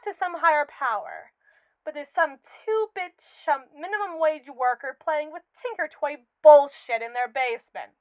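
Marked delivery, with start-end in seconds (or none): 1.9-7.9 rising scorn, bursting loud at the end; contemptuous outburst. Acted. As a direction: spit out the contempt for the creator. AI sneers at its creator.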